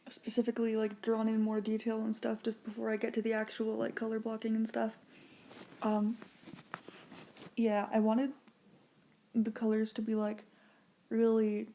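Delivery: slightly slurred around braces; talking with braces. Real, not acted. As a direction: talk around the wire in your mouth. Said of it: "I cannot speak with this stuff in my mouth".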